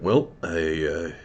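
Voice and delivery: high, loud dwarf voice; old dwarf voice. Acted. Old dwarf Scosset offers to look, high and loud.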